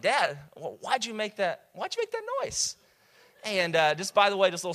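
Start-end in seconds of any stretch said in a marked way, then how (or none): 0.0-2.8 playing his six-year-old asking what dad did; son's puzzled question. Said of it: "my son's like".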